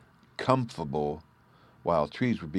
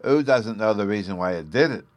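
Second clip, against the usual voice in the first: scornful; 3 semitones higher, 6 dB louder than usual. A narrator's reading. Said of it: "Bruno scornfully retorted".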